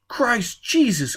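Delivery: high, slow, stunned panic; shaken oath. Acted. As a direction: blurt it in shock. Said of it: "Quat shook".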